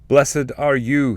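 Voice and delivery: high, loud and slow exclamation of praise; joyful spirit's blessing. Acted. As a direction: cry out the blessing in rapture.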